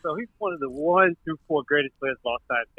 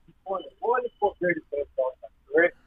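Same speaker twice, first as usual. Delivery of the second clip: breaking up; 4 dB quieter than usual. Real, not acted. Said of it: "You gotta get off that Boost Mobile".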